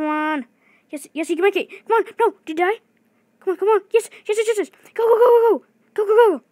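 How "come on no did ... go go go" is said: very high, loud go-go chant; frantic cheering. Real, not acted. Gamer cheering the last run to the exit, frantic shouts. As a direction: scream them to the exit.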